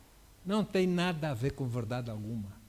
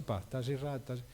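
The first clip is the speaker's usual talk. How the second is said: softer, lower, kind rebuke; gentle correction; 3 semitones lower, 5 dB quieter than usual. Shown as a demonstration. Preacher showing the right, loving way to correct someone. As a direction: say it calmly, as a friend who cares. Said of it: "com o tom de voz correto".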